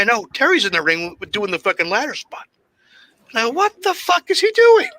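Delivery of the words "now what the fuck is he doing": much higher, slower, laughing through the words; can't believe it, cracking up; real laughter at a memory; laughing disbelief. Real, not acted. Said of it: "laughing disbelief".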